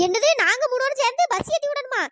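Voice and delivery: an aunty aghast at being asked to help; shocked echo. Acted. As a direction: throw நாங்க மூணு பேரும் சேர்ந்து back in disbelief. Aunty echoes the request aghast.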